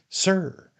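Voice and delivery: high, prompt reply; answering a call. Acted. Servant answers his master, calling back.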